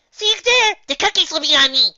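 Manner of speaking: high, loud bubbly cheer; cheerful shout. Acted. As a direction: bounce it out, party pony. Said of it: "Pinkie Pie cheered".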